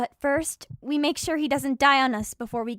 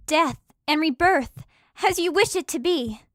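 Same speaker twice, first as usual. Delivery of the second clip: incantation. Acted. Healing incantation.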